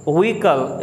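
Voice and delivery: व्हीकल said as vee-kal, silent h; correct pronunciation. Shown as a demonstration. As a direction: model व्हीकल without the h. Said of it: "व्हीकल या". (व्हीकल बिना h के बोलना)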